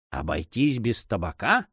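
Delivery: understated despair, not shouted; a touch of dismayed disbelief; despairing cry. A narrator's reading. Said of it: "вскричал Тихий Ветерок с глубочайшим отчаянием". (со сдержанным отчаянием)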